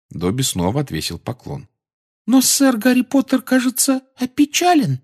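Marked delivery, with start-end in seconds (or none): 2.3-5.0 very high timid elf voice; shy worried little elf; squeaky elf. Acted. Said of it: "продолжал он".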